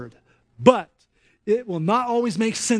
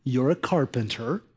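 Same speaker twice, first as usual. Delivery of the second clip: grumbling Peter. Retold or imitated. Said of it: "you can almost hear him thinking this".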